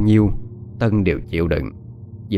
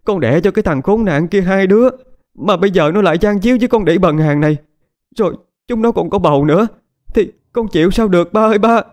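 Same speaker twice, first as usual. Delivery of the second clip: much higher, louder wailing tirade; crying and cursing; 11 semitones higher, 4 dB louder than usual. Acted. Betrayed wife wailing to her father, crying while cursing. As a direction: sob and rage at once, begging father to act. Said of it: "vừa khóc vừa chửi".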